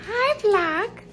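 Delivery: drawn-out presenting voice with swinging pitch; slow, singsong kitchen-tour narration; vlog tour host. Pretend. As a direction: show off each item like a mock tour guide.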